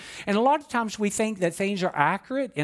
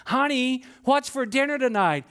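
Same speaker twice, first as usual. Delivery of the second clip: right in her ear; 8 semitones higher than usual. Acted. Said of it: "spoke directly into her ear".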